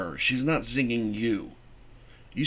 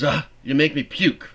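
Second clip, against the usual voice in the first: louder repeated insult; disgusted jab; 3 semitones higher, 6 dB louder than usual. Acted. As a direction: say it again, harder.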